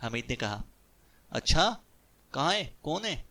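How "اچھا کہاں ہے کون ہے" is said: much higher, eager and perked up; suddenly all ears and delighted; eager chirp. A narrator's reading. Qasim perking up at news of a woman, excited. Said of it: "Qasim چہک کر بولا".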